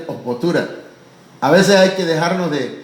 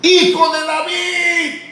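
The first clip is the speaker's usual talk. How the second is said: much higher, slow shouted plea; shouting plea; 12 semitones higher, slower than usual. Acted. Blind men crying out to Jesus on the road, shouting. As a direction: yell for mercy at full voice. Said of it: "Pero duro, fuerte".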